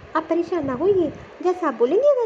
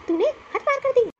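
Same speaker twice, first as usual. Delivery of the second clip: sharp rebuke, pitched higher; scolding; 6 semitones higher than usual. Acted. Mother-in-law scolding her daughter-in-law, indignant. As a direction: cut her down for crossing the line.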